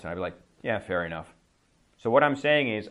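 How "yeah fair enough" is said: low, grudging agreement; resigned acceptance. Shown as a demonstration. Teacher voicing a resigned reply to a rude student, low. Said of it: "I'm not happy about this information".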